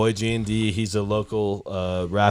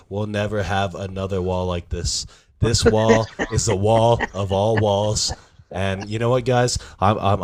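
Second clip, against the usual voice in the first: Donald Trump impression. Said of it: "I'll answer it like I'm Donald Trump".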